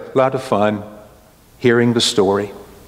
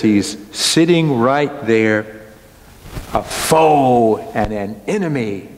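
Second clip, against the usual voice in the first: accusing Esther. Acted. Esther accusing Haman before the king, slow and grave. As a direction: point him out gravely, word by word.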